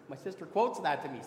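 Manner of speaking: ordinary delivery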